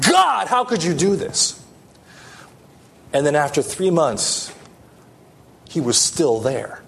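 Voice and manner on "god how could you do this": mock yell, pitched higher, punch on GOD; an understated, retold angry plea. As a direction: imitate a man crying out at God in anger. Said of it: "I yelled at him".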